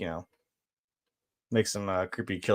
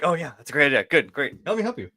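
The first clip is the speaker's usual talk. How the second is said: mock eager cooperation; 3 semitones higher than usual. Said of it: "She's like".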